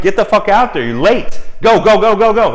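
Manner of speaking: frantic yelling. Retold or imitated. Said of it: "they're like".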